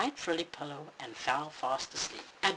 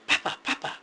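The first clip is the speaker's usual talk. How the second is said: excited Mama call; 4 dB louder than usual. Acted. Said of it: "she called excitedly".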